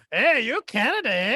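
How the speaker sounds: teasing Canadian greeting; mock Canadian. Co-host mimicking Canadians meeting in Cuba, mock Canadian. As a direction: imitate a Canadian ending on "eh". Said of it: "Y'all really talk like that".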